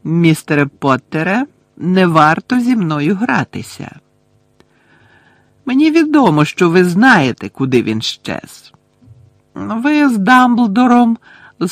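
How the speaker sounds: high, loud, emphatic accusation, settling at the end; menacing interrogator Umbridge. Acted. Voices Umbridge interrogating Harry. (погрозливий допит, високо й голосно)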